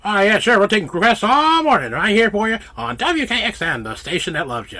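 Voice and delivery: chipper fifties announcer voice; bright radio host patter; old-time radio host. Pretend. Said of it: "old style radio person from, like, the fifties".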